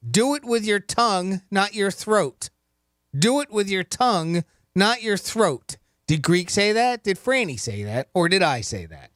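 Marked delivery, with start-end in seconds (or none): 0.1-5.8 slow and deliberate, stressing not; slow quiz reading. Shown as a demonstration. Host reading the quiz quote to George, slow and careful. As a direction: read it out carefully for the caller. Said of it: "Here is your quote".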